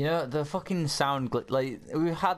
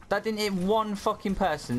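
high, disbelieving, angrier repeat; even more outraged disbelief; incredulous; 9 semitones higher than usual. Real, not acted.

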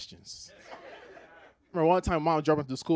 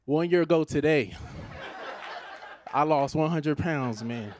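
mock public announcement. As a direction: interrupt the coffee shop with big news. Acts out announcing it in Starbucks.

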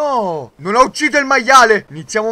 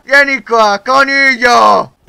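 taunting call; 3 semitones higher, 5 dB louder, slower than usual. Real, not acted. Taunting fleeing enemy.

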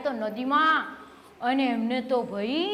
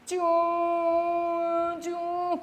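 crying mouse; 4 semitones higher, much slower than usual. Acted. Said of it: "રડવા લાગ્યા વધારે જોરથી".

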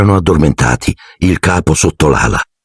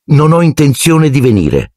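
higher, cool and curt reply; icy; 9 semitones higher than usual. A narrator's reading. Harry coldly refuses his uncle, icy reply. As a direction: answer him coldly, not giving an inch. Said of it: "rispose Harry gelido".

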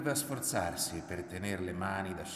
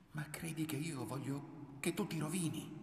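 heartfelt protest; 8 semitones higher, 3 dB quieter than usual. A narrator's reading. Man holding his frightened lover, high pained protest. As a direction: protest with pitch well raised, volume held in.

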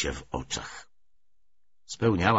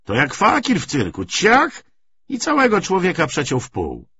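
high, animated ribbing; raised-voice mocking banter; boisterous joking; 9 semitones higher, 5 dB louder than usual. A narrator's reading. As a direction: crow over the joke to the gang. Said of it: "szczególnie żartowano z Zybienki".

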